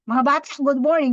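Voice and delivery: put-on fast, blunt greeting that frightens kids; stern fast greeting. Shown as a demonstration. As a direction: bark it out quickly at the children. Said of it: "Hindi yung".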